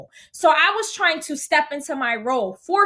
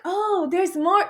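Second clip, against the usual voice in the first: slow, higher, unconvinced show of interest; half-hearted feigned excitement; 5 semitones higher, slower than usual. Retold or imitated. Reacting to her news, half-hearted feigned excitement. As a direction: try to sound pleased, without much force. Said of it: "trying to act like I'm excited".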